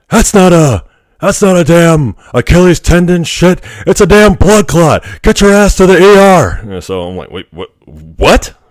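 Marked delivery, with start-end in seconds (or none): 0.1-6.5 very high, loud, zany eccentric-scientist voice, blurted. Retelling what the doctor said on seeing the swollen leg, as a Doc Brown impression. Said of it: "I'll try to do my best Doc Brown impression".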